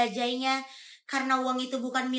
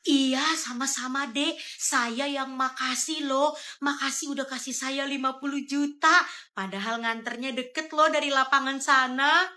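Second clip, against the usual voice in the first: put-on old driver; 3 semitones lower than usual. Driver character speaks. (sopir tua yang berterima kasih, pelan)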